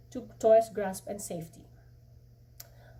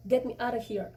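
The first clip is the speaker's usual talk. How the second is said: through clenched teeth; 3 semitones higher than usual. Acted. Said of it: "I rehearsed through clenched teeth".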